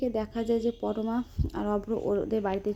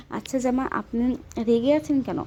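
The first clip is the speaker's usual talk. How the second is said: teasing call; 3 semitones higher, 6 dB louder than usual. Retold or imitated. Women tease the angry groom.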